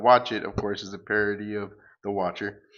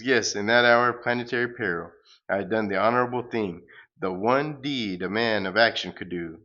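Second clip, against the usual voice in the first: a lightly voiced grandiose superhero, louder; pompous hero; 5 dB louder than usual. The hero boasting as he flees, lightly pompous hero voice. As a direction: declaim like a self-important comic hero.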